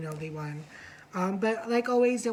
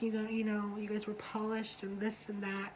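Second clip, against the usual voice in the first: suspenseful hush; 7 dB quieter than usual. Retold or imitated. Judge teasing the verdict, mild suspenseful hush. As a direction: hold the verdict back, softer. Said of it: "she was being very suspenseful".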